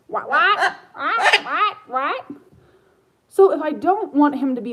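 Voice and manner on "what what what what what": high, loud laughing what; startled giggling at the bird; laughing surprise. Real, not acted.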